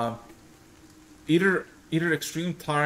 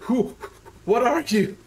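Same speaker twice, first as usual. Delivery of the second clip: higher, stuttered startled challenge; panicking; 8 semitones higher, 4 dB louder than usual. Acted. Elf guard challenges stranger at gate, panicking. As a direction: blurt it out in a mild panic. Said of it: "starts screaming, panicking".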